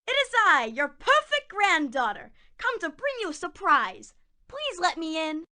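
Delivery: wolf putting on a sugary granddaughter voice; wolf pretending to be the grandchild; wolf faking sweetness. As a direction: fake the girl's sweetness, badly.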